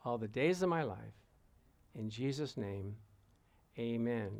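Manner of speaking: measured prayer in short phrases, pausing after each; repeat-after-me prayer. Real, not acted. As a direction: lead them line by line in solemn prayer.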